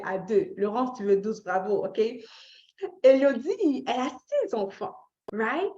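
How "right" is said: ordinary delivery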